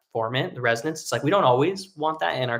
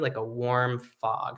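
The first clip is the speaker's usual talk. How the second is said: breathy fog; 4 dB quieter, slower than usual. Shown as a demonstration. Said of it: "I'm trying to create".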